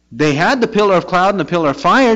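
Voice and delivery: usual speaking voice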